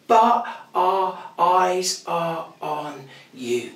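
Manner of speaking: slow, earnest, each word set down; sincere, slow. Acted. Preacher to congregation, revealing the key words, slow and earnest. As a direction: lay the words down gently and deliberately.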